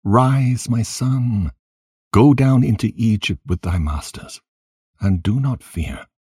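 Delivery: a touch of grief in a consoling prayer; understated lament, urging and consoling; mildly weeping, praying. A narrator's reading. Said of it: "with a voice weeping and praying in these words".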